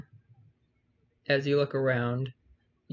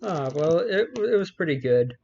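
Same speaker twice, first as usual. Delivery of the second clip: higher, louder figure voice; character voice; 3 semitones higher, 4 dB louder than usual. Acted. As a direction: answer as the figure. GM answers as the figure.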